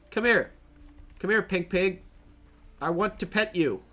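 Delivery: coaxing. Real, not acted. Coaxing pink pig.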